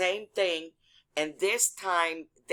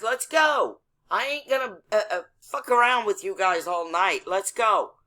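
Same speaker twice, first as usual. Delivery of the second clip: higher-pitched, impatient calling out; impatient retold yell; 4 semitones higher than usual. Driver calling to cops standing there talking, impatient half-yell. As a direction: act out hollering at people to hurry. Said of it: "Now I start yelling out the window".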